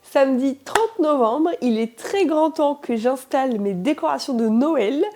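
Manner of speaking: raspy sick voice; hoarse from a cold. Real, not acted. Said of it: "pourquoi j'ai une voix cassée? Parce que je suis malade".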